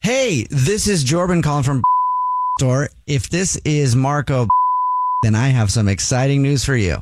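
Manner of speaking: upbeat prize-call voice; bubbly promo announcer; announcing big news. Acted. Fake prize call to husband.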